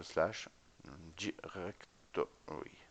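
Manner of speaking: syllable by syllable, drawn out; slow dictation. Real, not acted. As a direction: sound it out slowly as you type. Spelling it out while typing. (dicté lentement, syllabe par syllabe)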